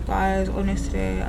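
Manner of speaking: slow speech through temporary teeth; numb from the dentist. Real, not acted. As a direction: mouth still numb from the dentist. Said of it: "I can't feel my mouth".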